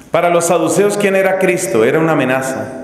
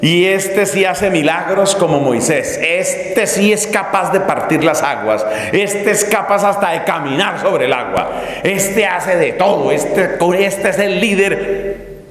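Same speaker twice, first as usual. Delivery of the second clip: higher, insistent acclaim; mounting excitement; 4 semitones higher than usual. Acted. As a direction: build the case like an elated follower. Acts Judas's growing excitement at victory.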